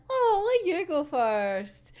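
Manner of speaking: mock-cute offer, starting high then easing down slowly; playfully cute. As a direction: coyly give way, in imitation. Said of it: "being fucking cute anyway".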